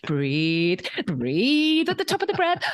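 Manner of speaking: husband calming. Retold or imitated. Husband coaching his panicking wife, mock calm breathing. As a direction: talk her through breathing. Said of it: "And Bryn was like".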